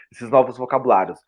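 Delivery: ordinary talk, nothing marked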